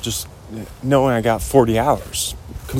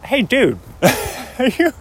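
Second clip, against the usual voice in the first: high, lightly voiced surfer dude; rusty Owen Wilson; 10 semitones higher than usual. Admitting his impression is rusty, high dude voice. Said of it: "my Owen Wilson's a little rusty".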